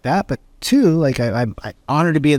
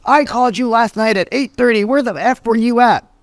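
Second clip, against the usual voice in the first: mock angry client; 9 semitones higher than usual. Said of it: "a client that calls and says".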